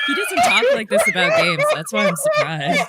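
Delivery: high, shouted astonishment through laughter; laughing disbelief. Real, not acted. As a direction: exclaim it while cracking up. Astonished, laughing at friend's outburst.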